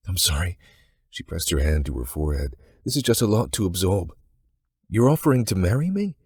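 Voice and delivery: put-on young Englishwoman caught off guard; Joanna's voice.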